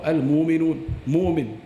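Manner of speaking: Al-mu'minun said as almuminun, long u; mu'min said as moomin, no glottal stop; mu'min softened to mumin; hamza turned to waw. Shown as a demonstration. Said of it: "it was changed to a waw".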